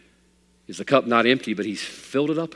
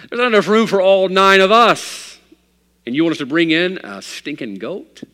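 loud, higher, indignant disbelief; incredulous objection; 7 semitones higher, 7 dB louder than usual. Acted. Father of nine to his preacher, loud disbelief. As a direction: protest like the idea is crazy.

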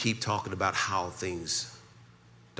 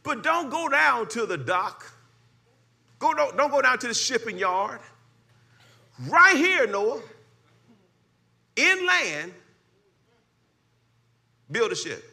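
much higher, louder fervent preaching; preaching at full force; 13 semitones higher, 6 dB louder than usual. Acted. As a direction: whip the congregation up.

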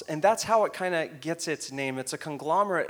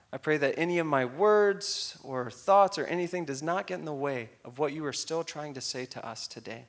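prayer; 3 semitones lower than usual. Acted. Leads a prayer.

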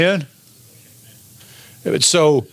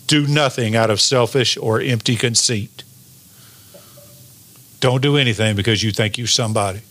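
a slightly slower, more deliberate reading; slowed down; 2 semitones lower than usual. Shown as a demonstration. Preacher rereading a verse for the congregation, slowed down a little. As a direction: take the verse down a notch in speed. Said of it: "let me slow it down a little bit".

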